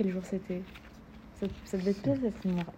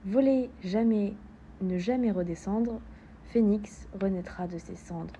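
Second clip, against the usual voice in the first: declaimed verse, forceful opening settling down; solemnly spaced poetry recitation; poem reading; slower than usual. Acted. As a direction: recite line by line with pauses between. Reads a poem aloud.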